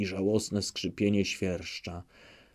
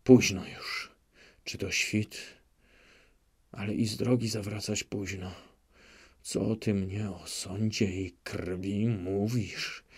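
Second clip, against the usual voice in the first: muttering; 5 dB quieter than usual. Acted. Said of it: "mruczał".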